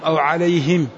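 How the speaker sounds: عليهم said "alayhim", with i after the h; kasra on the ha. Shown as a demonstration. Teacher contrasts the readers' variants, عليهم as alayhim. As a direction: make it alayhim, short i before the final m. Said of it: "المعنى لا يتغير".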